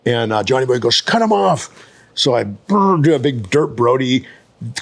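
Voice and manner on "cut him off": retold urgent order. Retold order from passenger to driver.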